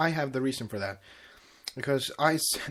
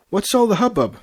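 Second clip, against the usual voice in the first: Spike; 8 semitones higher, 8 dB louder than usual. Acted. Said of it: "he asked".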